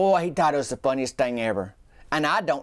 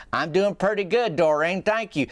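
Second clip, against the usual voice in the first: barely changed fish voice; hardly a ventriloquist voice at all; Doreen as the fish, same voice; 3 semitones higher than usual. Retold or imitated. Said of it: "Like, same voice".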